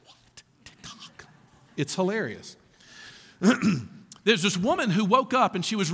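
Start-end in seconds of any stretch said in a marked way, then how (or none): 0.0-1.2 whispered "What? TikTok?" like a startled churchgoer; breathy disbelieving whisper; hushed mock shock. Pastor whispering the congregation's shocked reaction. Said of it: "some of your faces being like".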